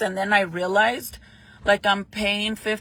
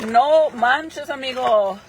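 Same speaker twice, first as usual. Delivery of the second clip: louder, higher No manches; excited exclamation; 4 semitones higher, 5 dB louder, slower than usual. Real, not acted. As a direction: burst out No manches, amigo.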